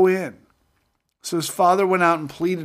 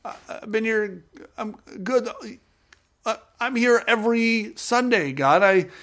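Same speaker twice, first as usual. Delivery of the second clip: aggrieved believer; 6 semitones higher than usual. Retold or imitated. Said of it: "And we're like".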